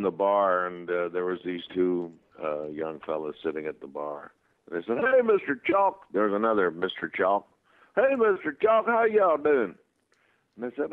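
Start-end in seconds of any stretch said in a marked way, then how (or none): 5.0-6.0 put-on high, slow, drawn-out hey from a young fan; lightly voiced eager young fan; young bar fan hailing the actor, higher. Fan greeting in bar story. 7.9-9.7 higher, louder hey, mister Chalk; lightly voiced keen young fan; eager fan voice. Fan greeting in bar story.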